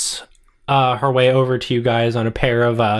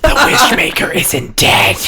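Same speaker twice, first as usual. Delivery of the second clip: higher, louder squeaky creature; squeaky rat voice; 9 semitones higher, 4 dB louder than usual. Acted. A psychic rat announcing to the tour, squeaky and loud.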